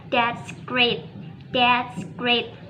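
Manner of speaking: "That's great" exclaimed with a falling end; exclamation. Shown as a demonstration. Presenter showing classmates an exclamation, exclaimed.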